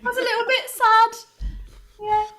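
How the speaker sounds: put-on broad northern English accent. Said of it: "Have you turned into a northerner".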